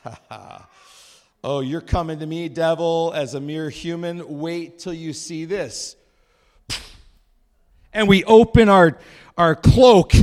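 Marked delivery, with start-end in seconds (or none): 0.0-6.0 taunting the devil. Pretend. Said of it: "We can say".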